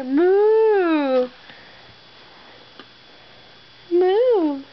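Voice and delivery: a mock cow moo for a toddler. Mom reading animal book to toddler.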